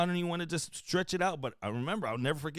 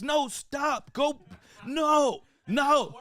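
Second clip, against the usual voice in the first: panicked yells; 8 semitones higher, much slower than usual. Retold or imitated. Everybody in the stands yells at the runner taking off. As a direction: yell at him to stop.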